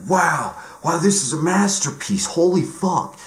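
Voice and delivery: high, gushing mock awe; gushing fan. Mocking fans who gush at Shaun of the Dead in high awe. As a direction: squeal over a masterpiece like a starstruck fan. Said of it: "and they're like".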